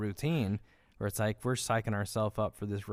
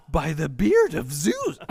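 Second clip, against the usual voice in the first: booming oath; 4 semitones higher, 6 dB louder, slower than usual. Retold or imitated. First take of oath.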